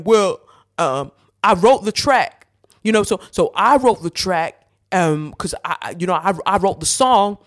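put-on a failed stab at his accent; half-hearted impression of a rapper; attempted rapper accent. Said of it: "I can't even do his accent".

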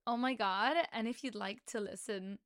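attempted American accent. Shown as a demonstration. Podcast host trying the social media plug in an American accent. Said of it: "like, an American accent".

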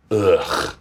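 low throaty groan of disgust; disgusted "ugh". Retold or imitated. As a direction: let out a short, disgusted "ugh". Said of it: "I literally went".

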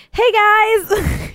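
high, boyish greeting in a mock teen voice; uptalk. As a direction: chirp it like a shy young guy. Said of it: "but like".

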